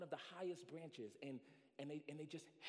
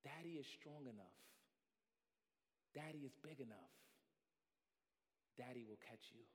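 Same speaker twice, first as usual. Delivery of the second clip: soft, low, calm reassurance; reassuring father; 4 semitones lower, 9 dB quieter than usual. Acted. Father below the branch reassuring child, soft and calm. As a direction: gently promise to catch.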